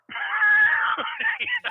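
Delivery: high-pitched burst of laughter; loud high laugh. Real, not acted. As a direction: burst out laughing at your own story. Bursts out at own story.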